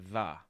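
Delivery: "the" with a neutral schwa vowel; schwa sound. Shown as a demonstration. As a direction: isolate "the" as a short "thuh". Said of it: "We're using that schwa sound".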